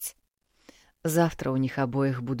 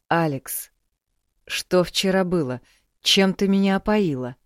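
higher, louder demanding question; bewildered demanding; 4 semitones higher, 4 dB louder than usual. Acted. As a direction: press her for answers.

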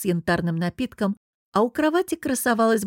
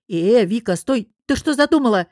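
calling out; 3 semitones higher, 5 dB louder than usual. Acted. Manager shouts to stop Vika's scheming, loudly. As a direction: stop her with a loud shout. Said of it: "окликнула зависшую в коварных мыслях девушку".

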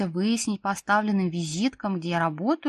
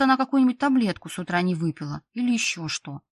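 ordinary delivery

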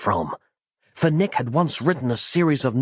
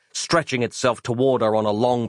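usual speaking voice

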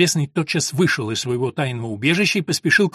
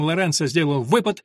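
usual speaking voice

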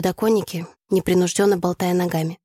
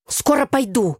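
higher, drawn-out call; calling back; 6 semitones higher, slower than usual. A narrator's reading. Tasya answers the classmate down the corridor, calling out. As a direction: call it to someone far away.

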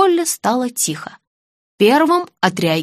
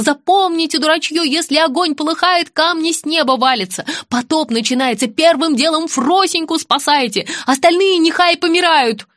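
mock yelling mother-in-law; 6 semitones higher than usual. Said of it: "ведьма заорала".

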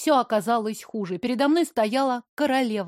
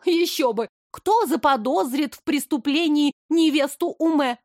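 higher, lightly voiced accusing young lady; spiteful young blonde; 4 semitones higher than usual. Blonde accuses the innkeeper before the queen, higher spiteful voice. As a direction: tattle eagerly to the queen.

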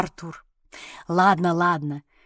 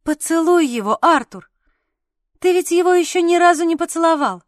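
eager exclamation; 6 semitones higher, 5 dB louder than usual. A narrator's reading. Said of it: "воскликнула я".

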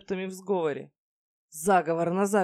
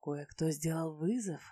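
seductive; 5 dB quieter than usual. Acted. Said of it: "соблазнительно прикусив нижнюю губу".

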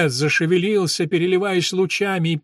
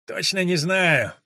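reluctant; 4 semitones higher, slower than usual. Acted. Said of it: "нехотя отвечал Векса".

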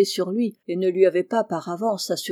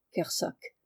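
usual speaking voice

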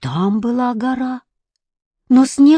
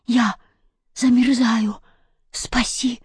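freezing cat; 3 semitones higher, slower than usual. A narrator's reading.

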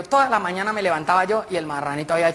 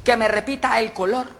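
higher, measured classroom instructions; schoolteacher; 3 semitones higher than usual. Acted. Teacher assigns colours and threatens to fail pupils, schoolteacher. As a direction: lay down the rule like a strict teacher. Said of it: "La profesora el otro día".

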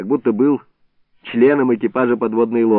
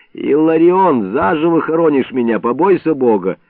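loud plea; 4 semitones higher, 4 dB louder than usual. Acted. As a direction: plead from inside the jug. Iliko pleads from the jug.

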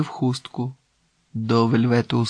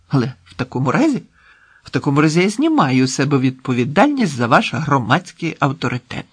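mildly agitated, rising protest; indignant protest; 4 dB louder, faster than usual. Acted. Man protesting after being overruled, indignant. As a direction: disclaim responsibility with some heat.

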